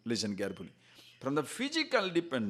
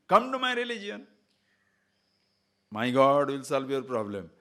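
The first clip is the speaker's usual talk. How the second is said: luring preacher; 2 semitones lower, 4 dB louder than usual. Pretend. Religious man luring, spider.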